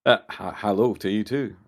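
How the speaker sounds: light Scottish accent impression of Jimmy S. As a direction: greet them in a Scottish accent. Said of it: "in Jimmy S voice with a Scottish accent".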